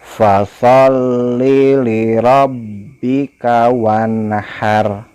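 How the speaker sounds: slow, melodic chant with long vowels; Quran recitation. Shown as a demonstration. Teacher models the verse for pupils, slow chant. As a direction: recite slowly, stretching each vowel. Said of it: "simak Bapak membaca".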